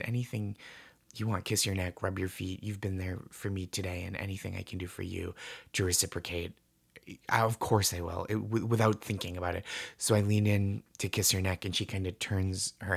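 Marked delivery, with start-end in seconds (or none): 0.0-8.2 tender promise. Retold or imitated. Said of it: "I just said".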